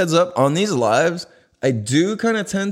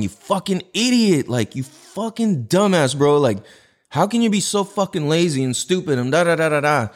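higher-pitched mock berating of yourself; exasperated self-insults, raised in pitch but not shouted; retold self-scolding; 5 semitones higher than usual. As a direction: act out chewing yourself out aloud. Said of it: "literally out loud going".

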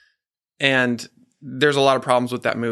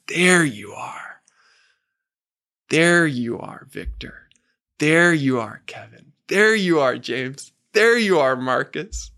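kind, tender compassion; 3 semitones higher than usual. Acted. God holds each man and names him, tender compassion. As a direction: greet each one like someone found. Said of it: "with kindness and tenderness and compassion and says".

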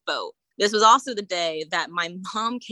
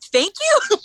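sarcastic thanks; 8 dB louder than usual. Retold or imitated. Retold sarcastic thanks to nurse.

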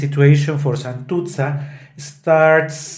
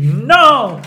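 shouted cry; 7 semitones higher, 5 dB louder than usual. Shown as a demonstration. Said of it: "And she".

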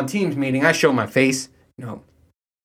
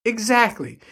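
vindicated; 8 semitones higher than usual. Retold or imitated. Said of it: "So I was just like".

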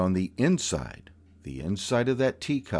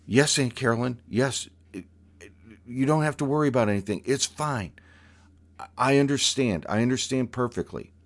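higher, rushed placating; teen reassuring a stern aunt, high and rushed; nervous reassurance; 4 semitones higher, faster than usual. Retold or imitated. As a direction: hurry to calm her down.

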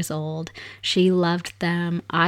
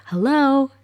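calling out; 7 semitones higher, 4 dB louder than usual. Retold or imitated. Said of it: "Shannon yelled out".

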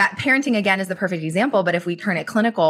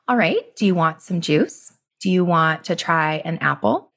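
mildly voiced unruffled mother; calm parent. Mother offering juice to her screaming son, mild calm. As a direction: keep offering evenly, unmoved by the tantrum. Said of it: "It's so calm".

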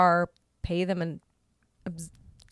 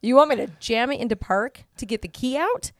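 higher, louder incredulous repeat; mad disbelief; 5 semitones higher, 7 dB louder than usual. Retold or imitated. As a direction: scoff at the advice in anger. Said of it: "I was so mad at this point".

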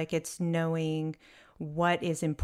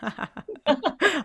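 laughing; 10 semitones higher than usual. Real, not acted. Laughs at fake it line.

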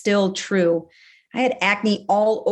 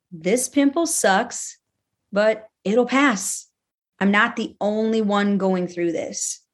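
kind self-talk. Shown as a demonstration. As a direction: say it gently, like comforting yourself. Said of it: "Can you try to be kinder to you?".

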